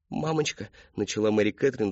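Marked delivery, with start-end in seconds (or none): 0.1-0.7 put-on higher, childlike appeal; little-girl voice. A narrator's reading. Daughter suddenly ten years younger, childlike voice. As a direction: call mummy like a small child. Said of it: "вдруг сделавшись на десять лет младше".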